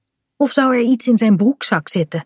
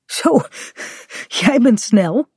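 out of breath, puffing between words; panting; 4 semitones higher than usual. A narrator's reading. Bink has been caught up by Kaat, panting. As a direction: gasp it out after a sprint. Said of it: "zegt hij hijgend".

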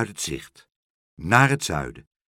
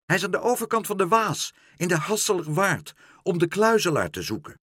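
high, raised voice giving directions; shouting; 9 semitones higher, 4 dB louder than usual. A narrator's reading. Meneer Pen directs flying Karel to Pluk, shouting. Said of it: "schreeuwde meneer Pen".

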